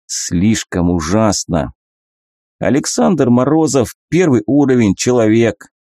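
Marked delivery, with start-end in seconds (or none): 2.6-5.7 system readout voice. Acted.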